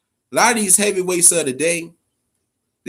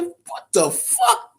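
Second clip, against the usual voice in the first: high, slow disbelieving exclaim; retelling his shock at the knockout, high and drawn out; stunned what the fuck; much slower than usual. Retold or imitated. Fan retelling seeing the knockout, stunned high disbelief. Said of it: "I said".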